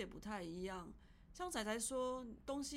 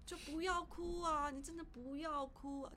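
imitated pleading relative; 6 semitones higher than usual. Family telling a grieving pet owner not to cry, coaxing. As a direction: imitate family urging someone to stop. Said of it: "我家人就说".

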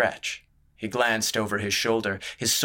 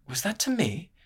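much higher, affronted "to me"; offended question; 9 semitones higher than usual. Acted. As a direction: lift the whole line in disbelief. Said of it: "A slight frown flickered".

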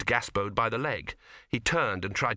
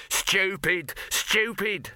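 shouted insult; 8 semitones higher, much slower than usual. A narrator's reading. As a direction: yell it at him in alarm. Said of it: "shouted Dibbler".

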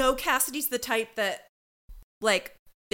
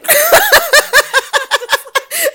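burst of laughter; 17 dB louder than usual. Real, not acted. Picturing sweating at brunch.

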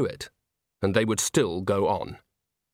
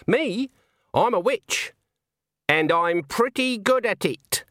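much higher-pitched character voice, drawn-out ending; an old witch asserting herself; proud old witch; 10 semitones higher, slower than usual. A narrator's reading. Old witch tells a suspicious man what she is, self-assured. Granny's voice in story.

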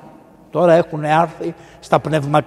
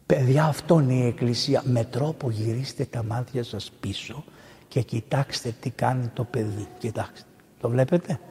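hushed aside; 4 semitones lower, 7 dB quieter than usual. Real, not acted. Hushed aside during church service.

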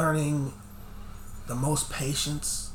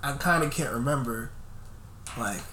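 slightly stoned, losing the thread; hazy, drifting stoner talk; high. Real, not acted. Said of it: "'Cause I'm kinda high right now".

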